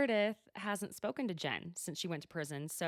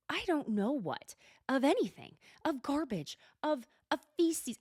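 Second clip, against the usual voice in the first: rising rant; 6 semitones higher, 5 dB louder than usual. Real, not acted. Ranting about bathtub insults.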